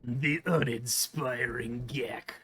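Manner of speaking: low, slow whisper. Acted. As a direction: breathe it out slowly. Whispers as the game's host.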